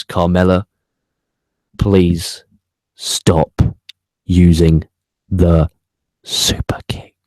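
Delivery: Carmella, please, stop, using, each word loud and split by long pauses, ending in a whisper on super kick; deliberate pleading with heavy pauses; slow, word-by-word plea. Real, not acted. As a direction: plead one word at a time, then whisper the last. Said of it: "and I really do mean this".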